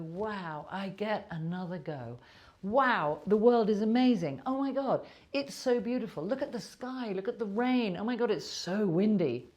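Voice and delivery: rising, breathless awe at the morning; delighted wonder. Retold or imitated. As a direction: imitate someone thrilled by the sky. Mock joyful morning self-talk.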